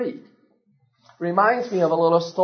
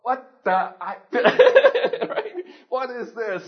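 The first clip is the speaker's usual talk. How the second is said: put-on startled baby bird; 8 semitones higher, much slower than usual. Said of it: "I'd go".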